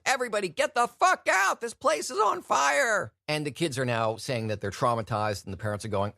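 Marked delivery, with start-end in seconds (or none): 0.1-3.1 high, loud frantic shout, slowing at the end; loud retold alarm yell; mock panicked yell. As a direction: bellow it like a Santa ripping off his beard. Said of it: "and said".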